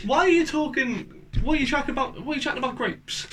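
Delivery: Cockney, rising in pitch with exasperation; gone Cockney. Real, not acted. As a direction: keep up the bewildered Cockney questioning. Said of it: "Why have you just gone Cockney?".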